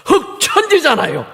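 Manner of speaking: put-on indignant kid shaking a fist at heaven; hammed-up childhood anger; mock outrage. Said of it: "얼마나 화가 나든지".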